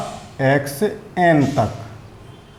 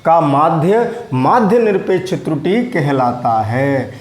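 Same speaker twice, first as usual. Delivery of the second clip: slow, deliberate dictation pace; slower than usual. Shown as a demonstration. Teacher dictating a definition to students, slowly. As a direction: spell it out slowly so they can write. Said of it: "मैं धीरे-धीरे बोल रहा हूँ".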